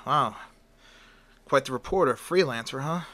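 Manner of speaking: loud impressed. Acted. Editor impressed by portfolio.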